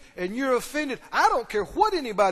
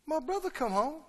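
higher, soft disbelieving echo; incredulous question; 4 semitones higher, 7 dB quieter than usual. Acted. Older son hearing of his brother's return, incredulous. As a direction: echo it back as a stunned question.

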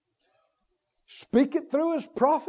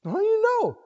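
higher defiant question; defensive challenge; 9 semitones higher than usual. Acted. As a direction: challenge back stubbornly. Acted argument with a doubter.

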